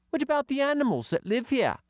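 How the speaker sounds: put-on high girl's voice; young girl voicing; girl character voice. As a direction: pitch up for young Katy. Katy voice.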